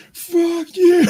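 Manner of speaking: loud high-pitched shout at the screen; a heckler yelling at the movie from the seats; mock yell. Heckler yelling at the movie's end, loud high shout. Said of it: "stand up at the end going".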